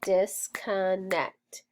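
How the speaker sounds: "Disconnect" slow as dis-con-nect; syllables snapped. Shown as a demonstration. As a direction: snap "Disconnect" out beat by beat. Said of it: "Snap it".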